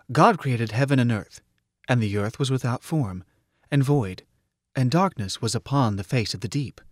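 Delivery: lightly intoned scripture; intoning. A narrator's reading. Computer reciting Genesis to its friend, intoning. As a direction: recite in measured phrases with pauses. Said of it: "Mike intoned".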